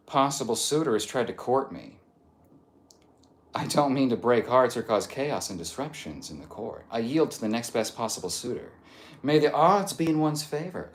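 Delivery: mock-courtly English accent. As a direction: read it as a formal English suitor. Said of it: "English accent".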